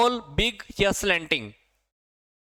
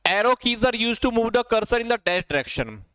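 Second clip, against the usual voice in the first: slow dictation; 5 semitones higher, much slower than usual. Shown as a demonstration. Reading a quiz question aloud.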